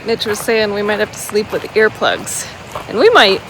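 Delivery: talking over loud creek noise; by a babbling creek. Real, not acted. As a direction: speak outdoors beside a rushing creek. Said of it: "you can hear the, a creek very well".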